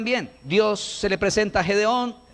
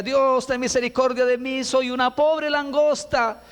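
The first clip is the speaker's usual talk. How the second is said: mock wailing prayer; 5 semitones higher than usual. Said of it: "levantó la voz y decía".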